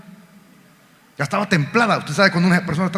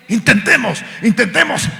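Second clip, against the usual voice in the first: urging; 5 semitones higher than usual. Retold or imitated. Fishermen urging each other in storm.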